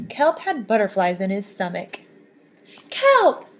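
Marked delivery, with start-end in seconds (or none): 2.9-3.5 much higher, loud joyful call of his name; loud, happy greeting called out. Acted. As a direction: shout his name across the water. Friends call Kelp home.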